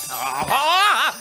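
excited laughing. Acted. Magic carpet takes off.

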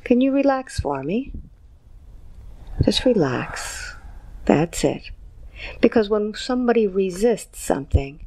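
calm guided visualization; hypnotic guided induction. Acted. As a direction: guide them gently, count by count. Hypnotist counts client into light.

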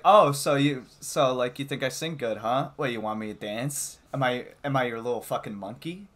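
mock-aggressive, rapid challenge; retold confrontation. Retelling going off at a classmate, mock indignation. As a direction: pile up indignant questions, starting loud.

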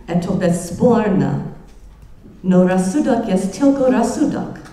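a lecturer reading Dostoevsky in halting English-accented Russian; heavily English-accented Russian. Shown as a demonstration. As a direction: sound out the Russian like a careful English speaker. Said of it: "excuse my very bad accent in, in Russian".

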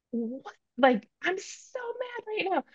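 high, soft mock outrage; voicing inner rage. Mother voicing her inner rage part, high mock fury. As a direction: give the angry inner part a squeaky indignant voice. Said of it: "this other rage part that was like".

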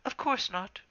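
cracked, aged voice; old she-cat voice. A narrator's reading. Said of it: "voice cracked with age".

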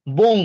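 বং set apart as one syllable; বং pronounced firmly by itself; isolated syllable. Shown as a demonstration. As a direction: sound out বং on its own. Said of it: "আমরা উচ্চারণ করছি".

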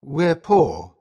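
low, falling, sorrowful admission; sad father. A narrator's reading. Father telling his children they are poor, sadly. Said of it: "he says sadly".

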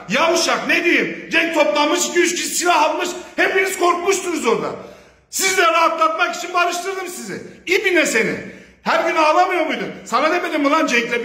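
real furious ridicule; angry mocking shout. Real, not acted. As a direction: yell it high, sneering at their fear. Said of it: "Ramazan ayında biraz sinirlendim".

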